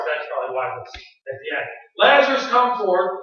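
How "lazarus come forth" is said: raised, ringing summons; commanding call. Acted. Preacher repeats Jesus' words at the tomb, commanding call. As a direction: call forth with authority.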